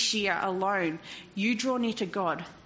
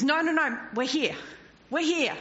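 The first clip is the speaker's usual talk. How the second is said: Paul calling out; 4 semitones higher than usual. Acted. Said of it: "Paul says".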